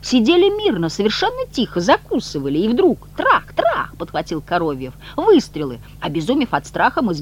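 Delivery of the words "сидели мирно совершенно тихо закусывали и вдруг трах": exclaiming. A narrator's reading. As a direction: throw up your hands and cry out. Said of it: "Бегемот вскричал".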